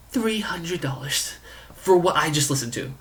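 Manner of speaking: whispered disbelief at the price; a stunned whisper over the cost; incredulous whisper. Real, not acted. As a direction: hiss it in disbelief.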